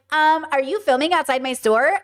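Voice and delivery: lightly voiced passive-aggressive shopkeeper; a hint of a pointed, fake-polite question. Shop owner confronting the girl outside, mild passive-aggressive tone. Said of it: "passive aggressive and she's like".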